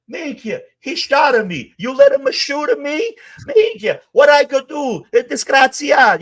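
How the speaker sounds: high, loud panicked Sicilian wail; panicked wounded guy. Retold or imitated. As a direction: shriek it out like you just got shot. Shot guy panicking, voiced high.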